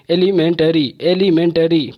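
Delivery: एलिमेंटरी in five distinct beats; syllable by syllable. Shown as a demonstration. Teacher counting syllables for students, एलिमेंटरी in distinct beats. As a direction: give every syllable of एलिमेंटरी its own beat. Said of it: "पांच बार".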